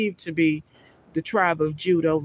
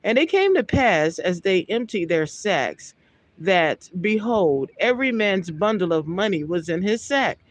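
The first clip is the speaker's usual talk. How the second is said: raised, measured Bible reading voice; scripture reading; 2 semitones higher than usual. Acted. Preacher reading Genesis aloud to his listeners, solemn. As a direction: read the verse out with solemn weight.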